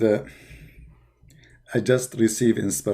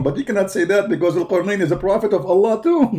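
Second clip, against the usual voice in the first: laughing; 5 semitones higher than usual. Real, not acted. Mocking punchline while laughing.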